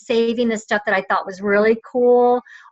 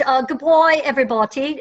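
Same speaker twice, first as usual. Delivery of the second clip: put-on British accent; 3 semitones higher than usual. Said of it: "I'm so gonna talk, uh, British".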